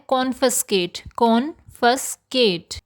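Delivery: कॉन्फिस्केट said slowly as "KON-fis-kate"; correct pronunciation. Shown as a demonstration. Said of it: "इसका सही pronunciation होता है".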